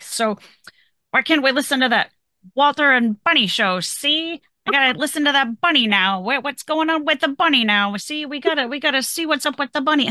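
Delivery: high, pleading, hooked on the show; eager husband. Retold or imitated.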